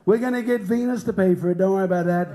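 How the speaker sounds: lightly voiced presidential impression; hint at a blustering politician's voice; Donald Trump. Comic playing a president facing aliens, light impression. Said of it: "imagine how Trump's gonna be".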